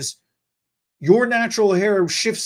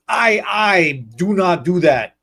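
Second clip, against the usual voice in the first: slow, loud denial; firm defensive outburst; insistent denial; 3 dB louder, slower than usual. Retold or imitated. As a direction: flatly refuse the blame. Denial, shout heard.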